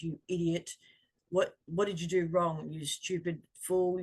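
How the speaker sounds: harsh scolding inner voice, slowing on the last insult; contemptuous self-talk, lightly voiced; mean inner critic. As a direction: sneer it at yourself like a bully. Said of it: "the mean, nasty person".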